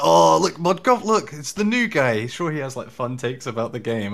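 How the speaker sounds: high, bright teasing announcement; mock excited. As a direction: hype up the new guy, teasing. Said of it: "there's them being like".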